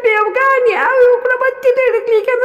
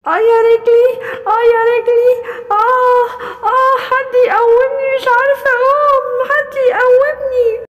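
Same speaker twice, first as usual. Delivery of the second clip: injured animal moaning. Acted. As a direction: call out for help, hurting.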